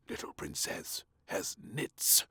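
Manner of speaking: slow, breathy secret whisper; slow hushed whisper. A narrator's reading. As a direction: whisper it so she can't hear. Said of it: "whispered the Prime Minister and Admiral".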